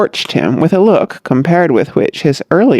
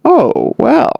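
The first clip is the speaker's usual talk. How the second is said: modestly; 9 semitones higher than usual. A narrator's reading. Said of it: "straightening his tie modestly".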